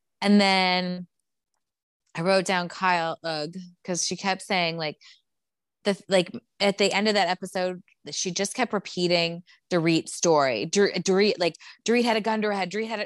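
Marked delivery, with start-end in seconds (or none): 11.8-13.1 emphatic, insistent, harping repetition, acted shouting. Retelling how she kept repeating Dorit's story: imitating someone shouting. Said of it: "Why are you shouting that over and over again?".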